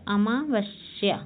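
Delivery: अमावस्या stretched out slowly; slow demo. Shown as a demonstration. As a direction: draw out अमावस्या syllable by syllable.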